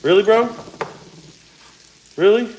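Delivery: high, disbelieving rise; mock outrage at the news; incredulous. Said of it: "I'm like".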